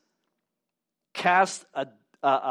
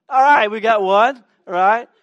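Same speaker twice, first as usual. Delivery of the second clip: louder, higher call to the room; rally the crowd; 5 semitones higher, 10 dB louder than usual. Real, not acted. Pastor calling volunteers from the congregation, loud and upbeat.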